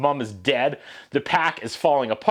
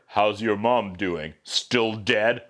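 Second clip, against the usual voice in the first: mock villain taunt; 7 semitones lower, much slower than usual. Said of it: "Shere Khan asks Mowgli's sister".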